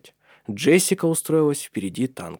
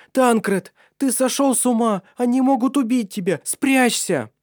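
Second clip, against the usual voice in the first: high, urgent woman's voice in alarm; frightened warning; 13 semitones higher, 4 dB louder than usual. Acted. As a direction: she begs him to hide, scared for him.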